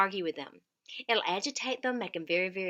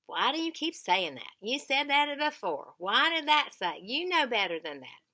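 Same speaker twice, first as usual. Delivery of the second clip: lecturing; 3 semitones higher, 5 dB louder than usual. Shown as a demonstration. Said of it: "lecture them and say".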